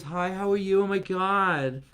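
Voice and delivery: put-on a man doing a high girly gossip voice; Michelle voice. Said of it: "Michelle talks like this".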